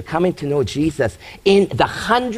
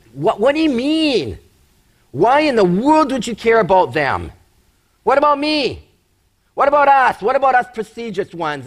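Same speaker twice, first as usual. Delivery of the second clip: high-pitched, incredulous pleading of put-out onlookers; indignant protest; 4 semitones higher than usual. Acted. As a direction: act out people demanding why they're left out. Acting out baffled, indignant onlookers.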